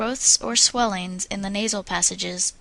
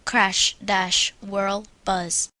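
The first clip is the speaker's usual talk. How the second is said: vigorous; much slower than usual. Shown as a demonstration. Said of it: "say vigorously".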